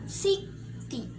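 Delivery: "city" split in two, up then down; rise-then-fall intonation. Shown as a demonstration. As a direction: raise the first syllable of "city", drop the second. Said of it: "naik, turun".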